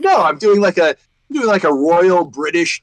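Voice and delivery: high, loud, insistent protest; indignant protest. Retold or imitated. Actor defending his character to family, high and loud. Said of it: "it's like".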